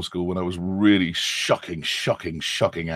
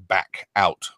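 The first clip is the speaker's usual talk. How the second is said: British accent demo; 2 semitones lower, much slower than usual. Shown as a demonstration. Dialect coach shows British vowels, British accent. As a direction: round British vowels at the back of the mouth. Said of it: "a British accent has an egg".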